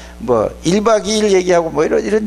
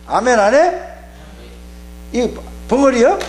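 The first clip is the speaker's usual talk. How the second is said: scolding demand; 9 semitones higher than usual. Real, not acted. Demanding amen from the congregation.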